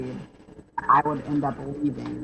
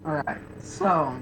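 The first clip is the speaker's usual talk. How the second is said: voice crack. Real, not acted. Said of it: "It's a bit of a voice crack".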